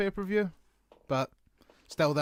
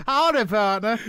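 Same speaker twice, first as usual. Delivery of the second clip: cowboy; 6 semitones higher, 7 dB louder than usual. Pretend. Cowboy greeting joke.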